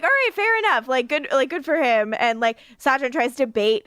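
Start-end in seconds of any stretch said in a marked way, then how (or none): 0.0-0.9 mock concession. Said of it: "Yeah, I'm like".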